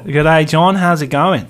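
lightly put-on Australian accent. Shown as a demonstration. Showing the mates an Aussie, lightly put-on Australian accent. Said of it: "Have you got an Aussie?".

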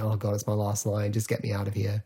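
drained and done for the day; weary. Retold or imitated. Exhausted actor on his last line, weary. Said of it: "he just wants to go home".

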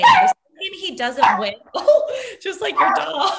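laughing through the words, pitch jumping up; cracking up mid-rant. Real, not acted. Laughing hard while ranting about Josh. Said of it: "Your dog is pissed off".

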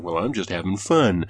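needling, with a drawn-out ending; snide retort. Retold or imitated. Gamer throwing a friend's excuse back at him, snide. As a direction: stretch the last words out pointedly. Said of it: "I was a real dick about it".

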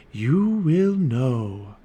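very slow, drawn-out mystery; mysterious. A narrator's reading. Morgan answers Jack's question, slow and mysterious. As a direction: stretch each word out mysteriously. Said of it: "Morgan said mysteriously".

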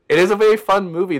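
bright lift on a very fun movie; excited. Real, not acted. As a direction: sell it with real enthusiasm. Enthusing about a favourite film.

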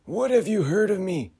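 high uncanny question; otherworldly figure probing; eerie high voice. Acted. Frederick asks.

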